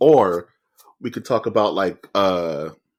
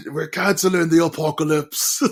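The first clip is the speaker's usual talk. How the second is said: higher, rough attempt at a British accent; Idris Elba; 4 semitones higher than usual. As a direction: have a go at a British movie-hero line. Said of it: "give me your best Idris Elba voice".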